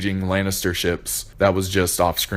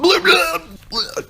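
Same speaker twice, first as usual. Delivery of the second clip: squeaky blah; 4 dB louder, slower than usual. Real, not acted. Cutting himself off before spoilers.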